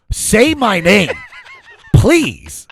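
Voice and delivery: high, loud, drawn-out pleading; begging. Retold or imitated. Comic to his friend, desperate mock begging. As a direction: beg him to name you on stage.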